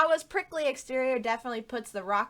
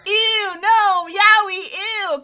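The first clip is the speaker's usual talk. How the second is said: mock disgust; 10 semitones higher, 11 dB louder, much slower than usual. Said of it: "everybody in chat being like".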